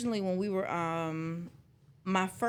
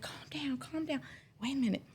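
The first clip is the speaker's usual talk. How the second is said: soft, soothing "calm down", quieter; calm soothing imitation; 7 semitones higher, 6 dB quieter, faster than usual. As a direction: imitate the supervisor calming her gently. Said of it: "really calm".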